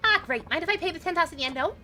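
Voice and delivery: put-on high New York accent, brash; a brassy New York lady warning him. Passenger warns the driver, high New York accent. Voices female taxi passenger.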